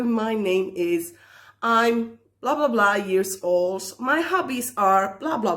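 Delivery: ordinary talk, nothing marked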